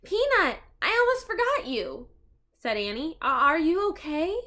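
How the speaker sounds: put-on worried little girl. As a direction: fuss over the mouse anxiously.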